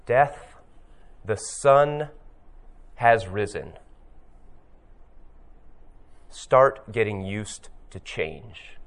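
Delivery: slow, calm and settled; unhurried calm reply; calm Apollo. Retold or imitated. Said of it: "Apollo just very calmly says".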